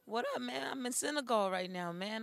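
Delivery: hoarse after a night partying; lost voice. Real, not acted. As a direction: voice worn out from partying. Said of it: "I lost my voice last night".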